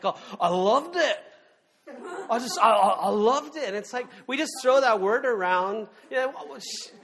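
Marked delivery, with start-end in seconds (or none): 0.0-3.6 put-on gushing celebrity judge in an English accent; mock English judge gushing. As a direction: imitate a judge's English gush, louder. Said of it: "got a pretty thick English accent".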